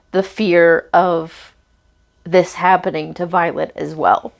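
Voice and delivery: tearful pauses, catching breath midword. Real, not acted. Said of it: "I'm sorry I'm crying on camera".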